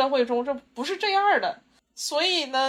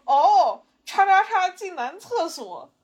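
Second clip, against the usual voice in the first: put-on taunting kid; 7 semitones higher, 4 dB louder, much slower than usual. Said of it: "指着我说".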